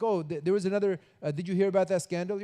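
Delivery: a hint of an excited gossiper; eager gossip. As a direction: lean in with the scandal.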